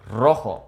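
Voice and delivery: "rojo" with a rolled Spanish r at the start; trilled r. Shown as a demonstration. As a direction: roll the tongue on the first sound of "rojo". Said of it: "where your tongue starts to trill".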